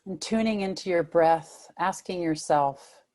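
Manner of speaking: unhurried meditation guidance with long pauses; guided meditation. Real, not acted. Meditation teacher settling listeners into body and breath, guided meditation. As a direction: lead them gently, phrase by phrase, leaving room to breathe.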